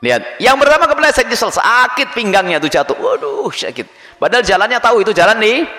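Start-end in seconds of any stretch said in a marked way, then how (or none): 3.0-4.2 mock pain. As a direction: yelp jumping way up, then a whispered "sakit". Slipped and hurt his back.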